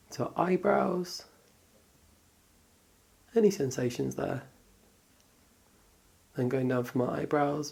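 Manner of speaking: calm, unhurried meditation guidance; guided body scan. Acted. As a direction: guide them gently through noticing the body, with pauses.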